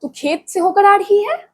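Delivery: just woken, asking in surprise; surprised question. A narrator's reading. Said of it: "हल्कू ने उठकर कहा".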